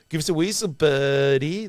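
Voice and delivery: loud, high goofy caveman call; Encino Man caveman voice. Retold or imitated. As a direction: bellow it like a dopey caveman. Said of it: "like that".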